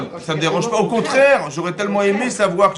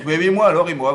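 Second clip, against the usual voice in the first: a louder, raised mock-indignant protest; indignant Korach; 3 semitones higher, 5 dB louder than usual. Korach protesting he was slighted, mildly indignant. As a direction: claim your due, offended. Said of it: "Il dit".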